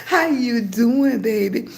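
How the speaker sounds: drawn-out Southern twang with a laugh; twangy Southern greeting. Shown as a demonstration. Grandma greets viewers after joking about her speech, twangy Southern accent. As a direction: greet warmly in a slow, playful Southern accent. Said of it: "I don't know why it's like that".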